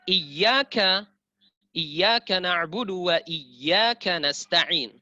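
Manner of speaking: iyyaka with a clear opening i and doubled y; slow, loud, careful recitation of "iyyaka"; clearly articulated recitation. Shown as a demonstration. Teacher points students to the verse, clearly articulated recitation. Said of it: "Lihat di sini".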